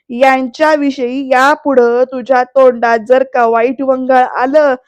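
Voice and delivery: loud, slow, weighty retold threat; stern warning. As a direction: deliver his threat loudly, stretching the last words. Retold final warning to Vidyadhar. (दमदार, सावकाश धमकीची नक्कल)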